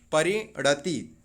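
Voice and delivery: परिणति stretched out very slowly, short final ति; slow careful pronunciation. Shown as a demonstration. Teacher to students, slowly modelling परिणति. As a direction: draw परिणति out syllable by syllable. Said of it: "ती में छोटे की मात्रा है".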